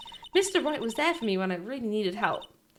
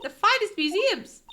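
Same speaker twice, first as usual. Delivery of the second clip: higher, louder gleeful repeat; high delighted girl repeating the phrase; excited echo; 9 semitones higher, 4 dB louder than usual. Acted. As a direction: echo it back thrilled. Maya echoes excitedly.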